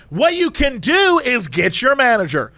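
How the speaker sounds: high-pitched, outraged customer; indignant Karen. Retold or imitated. Woman complaining to drive-through cashier, indignant. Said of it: "she's going full Karen".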